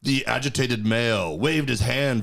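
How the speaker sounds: lightly voiced wildlife narrator; measured mock-documentary commentary; nature documentary narrator. Co-host narrating a laundromat spat as wildlife, mock-documentary. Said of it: "would see on Animal Planet".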